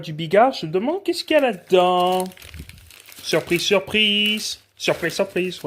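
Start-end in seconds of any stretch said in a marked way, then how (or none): 3.2-5.6 drawn-out mock Québécois accent; slow, stretched words in a Quebec accent. Shown as a demonstration. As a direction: put on a playful Québécois accent. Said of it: "je fais des accents québécois".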